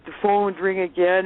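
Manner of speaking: ordinary talk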